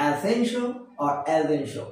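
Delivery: first "Essential" as "e-SEN-shl", second "essential" as "e-ZEN-shl"; both correct forms. Shown as a demonstration. Teacher repeating both accepted forms, "essential" as e-SEN-shl or e-ZEN-shl. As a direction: say "Essential" with s, then "essential" with z, short endings. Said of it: "এর উচ্চারণ হবে".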